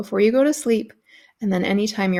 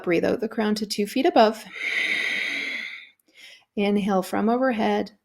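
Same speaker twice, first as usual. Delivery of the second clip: guided breathing cue. Acted.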